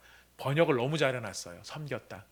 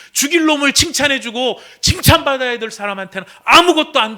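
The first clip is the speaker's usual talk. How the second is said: furious son; 9 semitones higher, 13 dB louder than usual. Acted. Son's acted tirade about justice.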